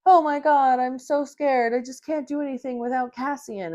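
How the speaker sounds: sarcastic imitation of a scared heroine; mocking Nesta. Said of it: "Nesta is just like".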